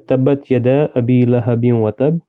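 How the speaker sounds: quick, even recital from memory; Arabic recitation. Shown as a demonstration. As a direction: rattle off the memorized Arabic verses. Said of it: "can you read it in Arabic for us".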